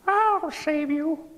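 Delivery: high, slow squeaky promise; tiny mouse voice. Acted. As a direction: reassure him like a little mouse.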